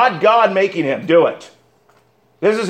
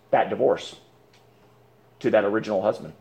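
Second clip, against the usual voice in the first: hushed emphasis; 10 semitones lower, 8 dB quieter than usual. Real, not acted. Hushed point on permanent divorce.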